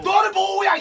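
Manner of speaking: loud outraged laughing shout; laughing yell. Real, not acted. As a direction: blast it out half-laughing. (웃으며 버럭)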